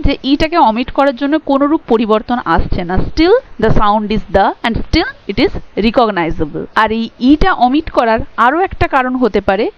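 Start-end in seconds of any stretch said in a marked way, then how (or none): 3.0-6.6 slow explanation. Shown as a demonstration. Teacher explains slowly in English.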